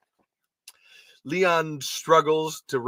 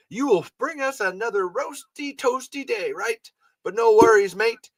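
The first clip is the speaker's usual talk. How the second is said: Leon greeting the sun; 8 semitones higher, 3 dB louder than usual. Acted. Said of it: "should I have a, an Australian accent".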